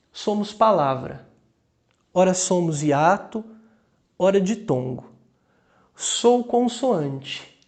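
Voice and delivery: measured poem reading with pauses between lines; poem recitation. Acted. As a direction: recite the verses slowly, phrase by phrase. Reads a poem aloud.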